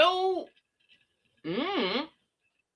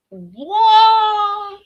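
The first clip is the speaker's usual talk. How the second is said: startled what; 12 semitones higher, 11 dB louder than usual. Real, not acted. Reacting to wrong comment.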